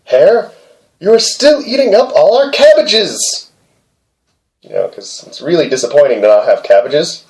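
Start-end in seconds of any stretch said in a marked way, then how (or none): 0.1-3.5 put-on high, raised girlish scolding; lightly voiced scolding girl; girl's voice. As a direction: pitch up to play the girl. Girl scolds hare in story.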